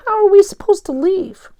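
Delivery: put-on high loud worried kid; scared. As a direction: plead for a way out.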